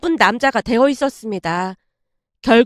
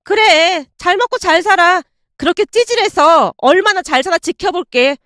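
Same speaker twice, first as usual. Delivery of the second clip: put-on sneering girlfriend; 5 semitones higher than usual. Ex-girlfriend's parting text to him, higher spiteful sneer.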